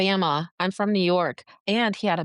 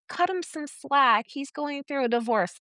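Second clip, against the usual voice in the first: mocking others' plea; 6 semitones higher than usual. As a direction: parrot their excuse mockingly.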